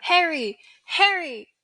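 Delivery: loud, rising calls of the name; a distant voice calling him back; crying out. Acted. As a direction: voices calling out in his head.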